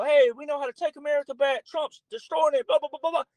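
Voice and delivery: high, scornful parody of Democrat protesters; mock their slogans with a sneer; mocking rally voice. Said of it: "doing rallies going".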